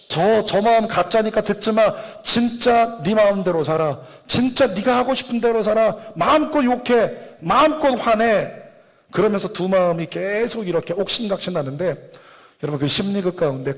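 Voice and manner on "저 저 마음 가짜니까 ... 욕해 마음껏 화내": higher-pitched urging as the bad conscience. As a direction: egg them on, lightly acted, pitch climbing. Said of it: "나쁜 마음이 또". (부추기는 나쁜 마음의 목소리)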